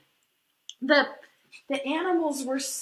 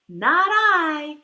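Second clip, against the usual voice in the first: a loud, blunt "no" from the duck; loud refusal; 6 dB louder than usual. Acted. Duck refusing to help the little red hen, loud blunt refusal. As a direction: bark it out, flat refusal.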